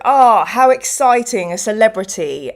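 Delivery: mock sarcastic fan greeting; a hint of sneering sarcasm. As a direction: lightly imitate a sarcastic stranger. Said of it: "such a sarcastic tone of voice".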